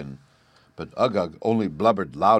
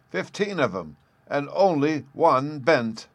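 high glee; 7 semitones higher, 3 dB louder, slower than usual. Acted. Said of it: "the professor added in high glee".

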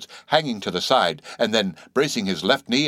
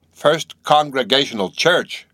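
higher, louder, slow outraged cry; cried out; 6 semitones higher, 5 dB louder, slower than usual. Acted. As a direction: spell out the church name in disbelief. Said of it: "cried Bildad".

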